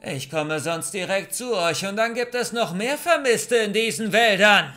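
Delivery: menacing far-carrying shout; shouted threat. A narrator's reading. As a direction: bellow a threat into the forest. Man shouts threat at hiders.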